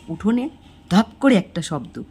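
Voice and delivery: plain reading voice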